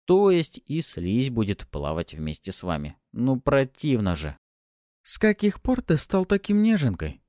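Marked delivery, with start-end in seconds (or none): 5.0-7.2 high teasing voice; mock her for being squeamish; teasing demon girl. A narrator's reading. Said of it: "поинтересовалась Пафи".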